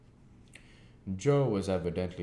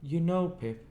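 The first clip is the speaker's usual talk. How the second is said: solemn; 12 semitones higher, 5 dB louder than usual. A narrator's reading.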